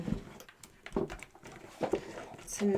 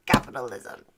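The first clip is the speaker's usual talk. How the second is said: much lower, matter-of-fact; low deadpan repeat; 13 semitones lower, 4 dB quieter than usual. Pretend. Streamer undercutting own joke about wings, low deadpan. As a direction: drop it down deep, falling at the end. Drops to low aside after proclamation.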